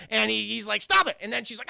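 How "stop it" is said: high, sharp comic protest; hammed-up alarmed objection; mock protest. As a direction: cry out to make her stop. Protest during retold scuffle.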